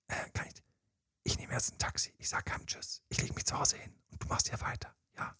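unvoiced whisper, secretive and gentle; whispered in the ear. Slipping away from the party, whispering to the partner. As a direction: breathe it into their ear so nobody hears. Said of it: "Kurz ins Ohr geflüstert".

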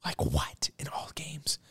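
hushed, can't believe the numbers; stunned whisper. Real, not acted. Whispering in disbelief at the Jets stats. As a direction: breathe it out in disbelief.

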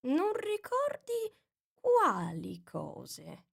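very slow, drawn-out voice; drowsy caterpillar. A narrator's reading. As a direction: let it trail lazily. Caterpillar asks slowly.

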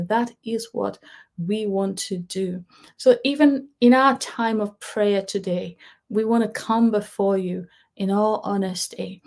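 earnest congregational prayer, steady and fervent. Acted. Pastor praying aloud for the congregation, earnest prayer voice. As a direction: pray it over the people, earnestly.

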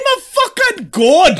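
mock Scottish Icarus. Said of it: "doing a Billy Connolly".

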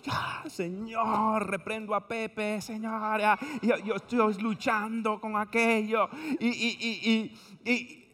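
lightly hammed-up pleading to the Lord; mock suffering prayer. Praying through boring commentary.

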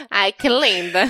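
laughing through the words. Real, not acted. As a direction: crack up while saying it. Laughing hard at friend's joke.

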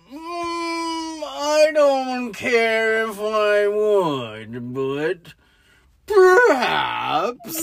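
slow, drawn-out turtle drone; nihilist turtle. Acted. Mimicking the movie's turtle for laughs, slow nihilist drawl. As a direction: drawl it out like a creature who couldn't care. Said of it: "He's like, the turtle is a complete nihilist".

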